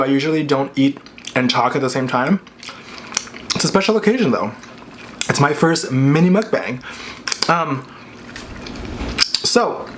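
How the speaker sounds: talking with food in mouth; chewing while talking. Real, not acted. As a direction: speak while chewing a bite. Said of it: "So I'm gonna talk and chew".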